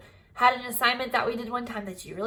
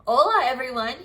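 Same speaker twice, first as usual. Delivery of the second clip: out of breath; 7 dB louder than usual. Acted. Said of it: "out of breath".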